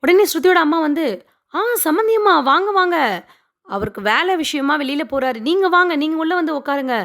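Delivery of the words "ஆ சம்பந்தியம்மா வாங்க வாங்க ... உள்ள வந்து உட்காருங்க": mock-sympathetic, haughty welcome; retold patronising pity; arrogant. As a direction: lightly act a condescending hostess, lifting the opening greeting. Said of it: "அவங்களுமே திமிரா தான் கூப்பிட்றாங்க".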